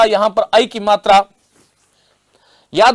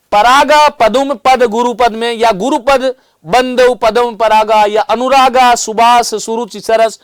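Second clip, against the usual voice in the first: slow verse recitation; slower than usual. Shown as a demonstration. Teacher reciting verse to the class in a slow, measured chant. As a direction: chant the chaupai slowly and evenly. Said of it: "यदि मैं इन शब्दों को उलट दूंगा".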